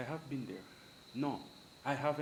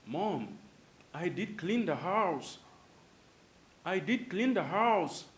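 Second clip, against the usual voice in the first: "did" pushed for emphasis in "I did clean the house"; stress on did; 6 semitones higher, 8 dB louder, slower than usual. Shown as a demonstration. Child insisting to mom with emphatic "did". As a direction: lean on "did" to insist, a bit slower. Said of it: "So you say".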